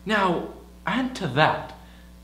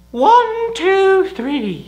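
loud, very high-pitched count; high, raised voice, easing off at the end; 10 dB louder, much slower than usual. Shown as a demonstration. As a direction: pitch it right up and call it out. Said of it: "Just pitch up your voice".

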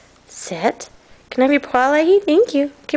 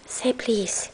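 soft whispered command; 3 semitones lower, 10 dB quieter than usual. Shown as a demonstration. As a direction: whisper the command gently to the dog. Whispered trick command to dog.

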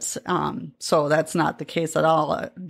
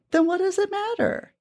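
emphatic; 13 semitones higher than usual. Retold or imitated. Echoing husband's blunt point.

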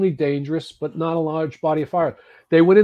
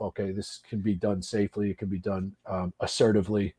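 inner voice; 6 semitones lower, 6 dB quieter than usual. Retold or imitated. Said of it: "you say to yourself".

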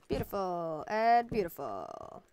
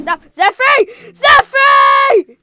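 furious shout; 14 semitones higher, 18 dB louder, much slower than usual. Real, not acted. Zephyr wrecks their stuff.

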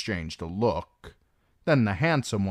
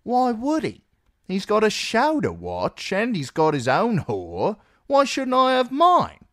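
much higher and louder, bratty and defiant; cheeky girl voice; 6 dB louder than usual. Acted. Mercy talking back to the older guard, high and loud. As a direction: toss it back like a spoiled girl.

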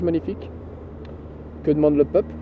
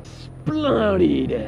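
soft, drawn-out "Splendide"; quoted catchphrase; 4 dB quieter than usual. Retold or imitated. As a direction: breathe out "Splendide" like a famous line, softly. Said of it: "ça va devenir une référence".

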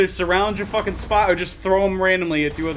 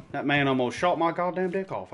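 usual speaking voice

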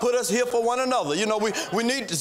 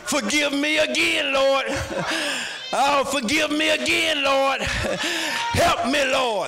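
pleading prayer; 3 semitones higher, slower than usual. Retold or imitated. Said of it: "go to the Lord and say".

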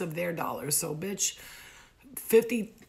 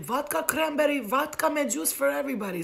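raised, high-pitched bar order; calling out an order; 7 semitones higher, 4 dB louder than usual. Retold or imitated. Woman orders drinks for the whole bar, calling out. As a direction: sing out the round for the whole room.

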